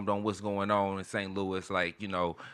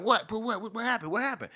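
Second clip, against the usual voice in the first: confused self; 9 semitones higher than usual. Retold or imitated. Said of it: "I'm like".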